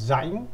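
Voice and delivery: "자잉" starting on a buzzed z-like j. Shown as a demonstration. Teacher shows learners the r sound, "자잉" with a z-like start. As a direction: say "자잉" with the r turned into a ㅈ sound. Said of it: "알 발음이 지읒 발음이에요".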